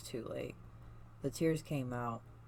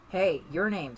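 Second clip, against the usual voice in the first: loud, higher shout of the name; alarmed call; 5 semitones higher, 7 dB louder than usual. Acted. Sonic calling out to the panicking reader, loud and alarmed. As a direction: snap them out of it.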